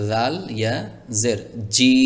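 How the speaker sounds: জি said with a j sound, the wrong way; wrong pronunciation demo. Shown as a demonstration. Teacher warns students, saying জি with a j sound. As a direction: say জি with a j sound to show the mistake. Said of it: "খেয়াল করুন".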